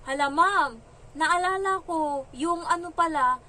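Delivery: high, loud, slowed "Hala, ma'am" of fake surprise; mock sudden recall. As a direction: pretend you just remembered. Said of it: "Sabi ko". (kunwaring nagulat na naalala)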